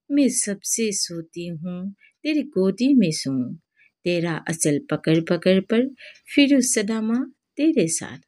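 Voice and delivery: slow, measured verse with swooping pitch; drawn-out, lilting Hindi poetry recital; poem recitation. Shown as a demonstration. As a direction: recite it line by line like a school poem. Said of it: "কবিতাটো আমি অলপ আবৃত্তি কৰিবলৈ শিকি লওঁ".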